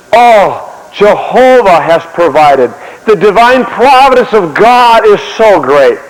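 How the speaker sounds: slow, solemn praise; reserved old-time reverence. Acted. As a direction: speak of God slowly and with reverence. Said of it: "a little bit more reserved in their expression".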